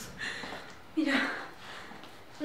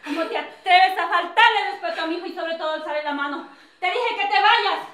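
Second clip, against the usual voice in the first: sharp, raised scolding of the daughter-in-law; angry scolding; 4 semitones higher than usual. Acted. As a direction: tell her off, pitch up. Suegra riñe a la nuera. (regaño enojado)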